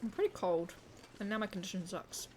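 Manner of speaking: chewing while talking; words round a bite of food; mouth full. Real, not acted. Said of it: "I'm talking with my mouth full".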